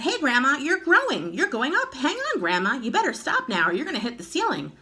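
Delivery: high alarmed shout at Grandma; boy shouting in alarm. A narrator's reading. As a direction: yell up in a panic. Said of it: "a jump and shouted".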